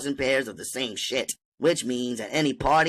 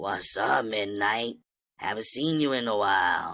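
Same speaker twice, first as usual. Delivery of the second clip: low, husky, rough, seductive voice; 4 semitones lower, 4 dB quieter than usual. Reading a story aloud, greeting a man in a crowded club: rough and sexy voice. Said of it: "said rough and sexy like".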